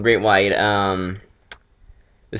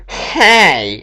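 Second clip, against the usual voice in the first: mock angry shout; 7 semitones higher, 6 dB louder than usual. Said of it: "She goes".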